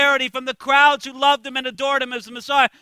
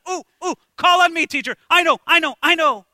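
eager schoolkid; 4 semitones higher, faster than usual. Retold or imitated. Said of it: "he's the kid putting up his hand in the class".

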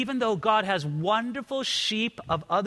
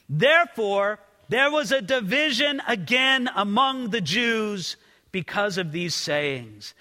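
scripture reading; 2 semitones higher than usual. Acted. Pastor reads the division among the Jews, proclaiming. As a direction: read the verse out, proclaiming. Reads verse eighteen aloud.

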